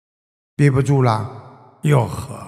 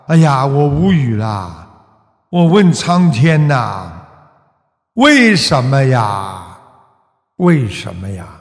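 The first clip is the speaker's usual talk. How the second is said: mock lament; 5 semitones lower than usual. Mocking people who complain after harm.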